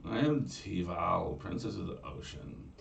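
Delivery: slow, softening mermaid princess; Valley Girl mermaid. Acted. Mermaid naming herself to Conchobar, slow Valley Girl. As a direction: drawl it like a bored princess.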